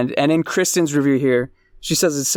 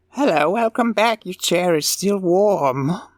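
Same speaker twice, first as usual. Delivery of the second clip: put-on sweet, pitched-up kindly old lady, Midwestern accent; 5 semitones higher than usual. Imagining a waitress greeting a returning customer: kindly old Midwestern lady voice. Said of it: "so you're picturing a, a nice, kindly old Midwestern lady".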